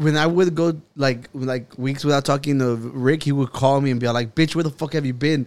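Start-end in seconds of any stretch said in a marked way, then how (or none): 4.3-5.5 put-on angry scolding voice. Retelling a friend's call after weeks without talking: imitating Rick being mad. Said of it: "he would be mad at me".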